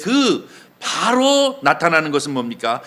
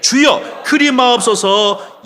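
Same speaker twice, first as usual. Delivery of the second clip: loud, high cry of protest; acted-out disciple's remonstration; protesting plea; 7 semitones higher, 6 dB louder, much slower than usual. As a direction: object urgently, stretching the words. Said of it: "베드로가 예수를 붙들고 항변하여 이르되".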